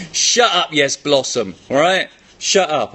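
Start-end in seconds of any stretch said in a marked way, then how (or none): 0.1-1.6 imagined scolding. Retold or imitated. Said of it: "you keep thinking he's saying".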